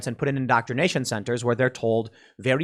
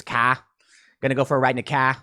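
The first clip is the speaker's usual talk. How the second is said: Boston-style dropped R, "cah"; light mock Massachusetts accent; faster than usual. Shown as a demonstration. Demonstrating regional dialects, Massachusetts accent. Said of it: "What is Massachusetts?".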